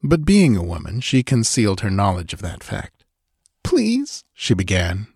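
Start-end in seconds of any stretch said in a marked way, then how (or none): 3.6-4.2 hint of tears. A narrator's reading. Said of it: "with a hint of tears in her voice".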